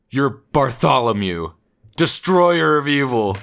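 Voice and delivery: slow, high, lightly acted proclamation; mock-grand naming. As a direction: imitate a friend grandly dubbing someone. Friend grandly bestows a hero name.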